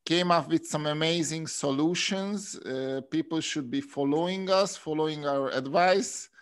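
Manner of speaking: slow, mock-proud sarcasm; sarcastic. Real, not acted. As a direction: fake self-praise, drawn out. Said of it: "I'm being sarcastic".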